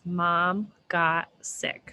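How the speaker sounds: slowly, word by word; slow and deliberate. Shown as a demonstration. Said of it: "So that sounds like three words".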